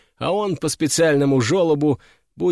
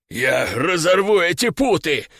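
hoarse. Acted. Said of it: "прохрипел он".

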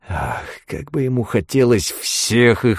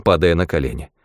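plain reading voice

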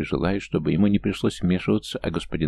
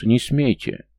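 shouting; 5 semitones higher, 4 dB louder, slower than usual. A narrator's reading. Leona shouting to stop fight.

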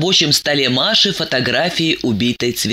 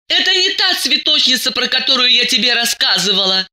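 crying out; 8 semitones higher than usual. A narrator's reading. Diana denies it is that flower girl, crying out. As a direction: cry out a denial in a raised pitch. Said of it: "закричала Диана".

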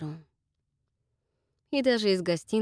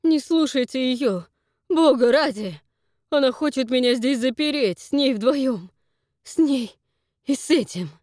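high, loud, frantic begging; terrified cry for help; desperate pleading; 6 semitones higher, 7 dB louder than usual. Acted. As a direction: plead for your life. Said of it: "Он вдруг взмолился".

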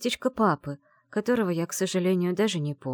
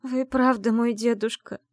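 slow, high choked question; holding back tears; 6 semitones higher, 4 dB louder than usual. Acted. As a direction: force it out through tears. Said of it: "глотая слёзы, выдавила я". (сквозь слёзы, медленно и выше)

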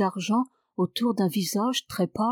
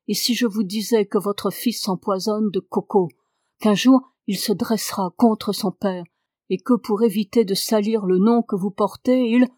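hard voice; 4 dB louder than usual. Acted. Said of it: "d'une voix dure qui n'était pas la sienne".

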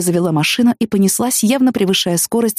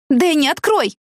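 shouting through door; 9 semitones higher, slower than usual. Acted. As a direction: yell for him to open up. Pounding on locked door.

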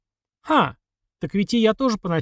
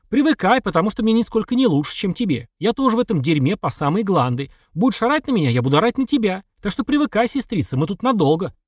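loud, higher angry shouting; 6 semitones higher, 3 dB louder than usual. A narrator's reading. Brother shouts at his sister to get used to it. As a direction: yell the whole tirade at her. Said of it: "Я ору, и мне хорошо".

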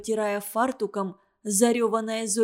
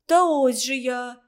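breathing hard; 3 semitones higher, 4 dB louder than usual. A narrator's reading. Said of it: "тяжело дыша сказала Маря".

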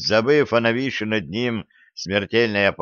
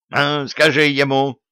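higher, louder begging cry; pleading; 6 semitones higher, 4 dB louder than usual. A narrator's reading. Grandfather pleads with his wife, higher and louder. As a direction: beg her to back you up. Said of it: "взмолился дед".

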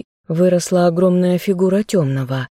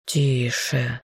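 soft hushing whisper; 5 semitones lower, 6 dB quieter than usual. Acted. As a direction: hush her gently, barely voiced. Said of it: "прошептала Лентер".

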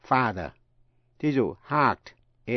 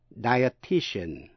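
"Dietitian" stretched out slowly, syllable by syllable; much slower than usual. Shown as a demonstration. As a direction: spell out "Dietitian" slowly in four even beats. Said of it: "bốn âm tiết".

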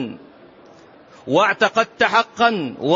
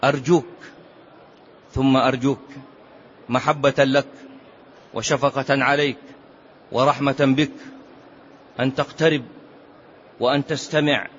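tender plea; 4 semitones lower than usual. Real, not acted.

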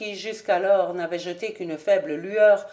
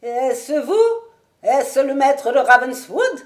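trembling voice; 5 semitones higher, 7 dB louder than usual. A narrator's reading. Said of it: "une voix tremblante demanda".

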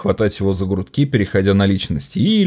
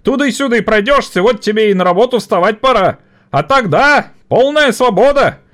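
sarcastic worker; 14 semitones higher, 5 dB louder than usual. Acted. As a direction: throw his words back. (язвительно)

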